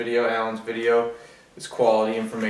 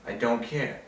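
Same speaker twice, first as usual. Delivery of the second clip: softer, trailing off; quieter; 6 dB quieter than usual. Acted. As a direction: let it drop, softer. Defiant repetition, fading away.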